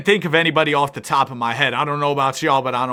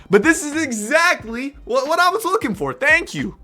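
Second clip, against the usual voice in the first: excited; 11 semitones higher than usual. Real, not acted. Delighted by the spin.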